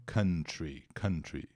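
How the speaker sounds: teacher models country twice, deliberately; careful pronunciation. Shown as a demonstration. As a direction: say country clearly, stressing the first syllable. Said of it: "Atenção à pronúncia de country".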